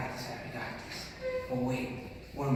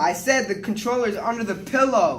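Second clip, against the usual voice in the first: yelling; 2 semitones higher, 7 dB louder than usual. Acted. Yelling to grandma on phone.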